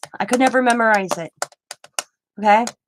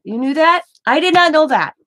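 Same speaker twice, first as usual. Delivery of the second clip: surprised; 7 semitones higher, 6 dB louder than usual. Real, not acted. Learns caps means yelling.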